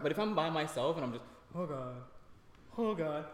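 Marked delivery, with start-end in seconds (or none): 1.5-3.2 hammed-up terrified rider; mock panic. Panicking alone on slide.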